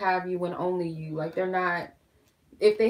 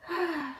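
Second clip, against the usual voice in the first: weary sigh; 10 semitones higher, 4 dB quieter than usual. Real, not acted. Sighs, upset about the spill.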